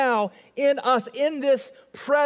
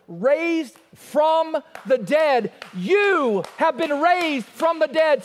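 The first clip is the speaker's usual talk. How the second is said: preaching climax; 5 semitones higher, slower than usual. Real, not acted.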